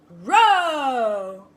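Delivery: loud croaked Row with a changed timbre; a second frog answers loudly. Acted. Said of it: "said another voice".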